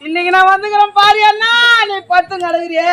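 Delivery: keen over the dead uncle like a mourning niece; mock wailing lament. Mother mourning her only brother, mock wailing lament. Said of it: "அப்படிதான் அழுவணும்".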